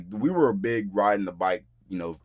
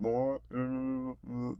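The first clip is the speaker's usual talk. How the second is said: higher, softer, heard faintly down the line; voice through phone; 5 semitones higher, 7 dB quieter than usual. Retold or imitated. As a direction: imitate a distant voice on the phone. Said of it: "like, coming from the phone".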